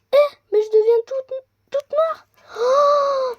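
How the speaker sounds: surprised. Real, not acted. Surprised at turning black.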